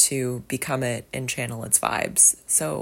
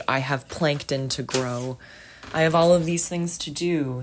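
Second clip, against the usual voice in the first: the sea replying. Retold or imitated. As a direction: voice the sea, matter-of-fact and busy. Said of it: "the sea replying".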